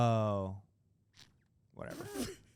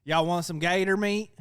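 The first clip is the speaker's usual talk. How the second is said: put-on southern accent; 3 semitones higher, 6 dB louder than usual. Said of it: "brown guy with a southern accent".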